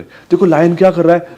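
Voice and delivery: bright asking voice; talking to a toddler. Shown as a demonstration. Parent asking a child what the lion does, bright. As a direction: ask the little one eagerly. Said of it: "repeat कर रहे हो".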